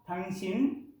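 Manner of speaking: tangshin with a plain s sound. Shown as a demonstration. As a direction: say tangshin with a hard s. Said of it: "O que diga". (tangshin con s)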